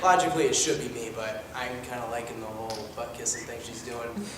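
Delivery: deadpan son. Acted. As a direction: mumble it dryly. Plays a deadpan adopted son.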